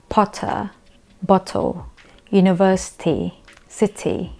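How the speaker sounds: "potter, bottle, university, city", each T a true T; British T. Shown as a demonstration. Teacher listing practice words, clear British T. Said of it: "the T is pronounced as a T".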